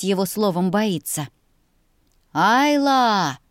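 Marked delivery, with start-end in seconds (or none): 2.3-3.4 loud call from the road; distant call. A narrator's reading. Brother calling Ayla from the road, loud call. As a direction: shout her name from afar. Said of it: "раздалось со стороны дороги".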